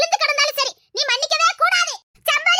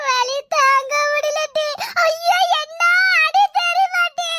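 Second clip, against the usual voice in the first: hammed-up pain moan; slower than usual. Faking pain.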